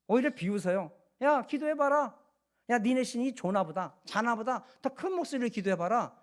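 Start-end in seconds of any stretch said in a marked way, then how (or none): 1.2-6.1 lightly acted taunting challenge; mocking taunt. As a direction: jeer at rivals, imitating a prophet's sarcasm. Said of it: "비꼬아요".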